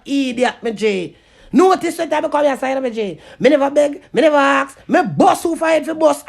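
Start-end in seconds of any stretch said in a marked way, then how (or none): 3.4-6.2 loud boast. Real, not acted. Ranting vlogger loudly boasts he never begs. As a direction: punch NEVER, loud and firm.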